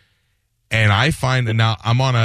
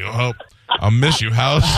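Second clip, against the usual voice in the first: mock tearful goodbye to the house, breaking into laughter; mock sad farewell; 8 semitones higher, slower than usual. Guest mocking his own sadness, laughing goodbye to his house. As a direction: bid the house farewell, hammed-up.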